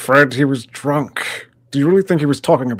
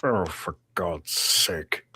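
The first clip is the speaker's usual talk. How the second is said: exasperated; 9 dB quieter, much slower than usual. Acted. Actor exasperated at Jason.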